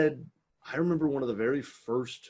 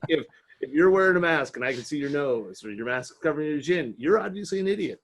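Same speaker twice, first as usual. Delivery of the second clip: laughing rant; 5 semitones higher, 6 dB louder than usual. Real, not acted.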